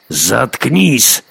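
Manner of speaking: sudden angry squeal; shrieked order. A narrator's reading. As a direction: snap out a furious silencing shout. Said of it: "Лорхи взвизгнул".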